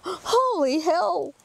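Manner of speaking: voicing a frightened animal, slowly; animal's terror. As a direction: let the dread drag out slowly. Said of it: "They go".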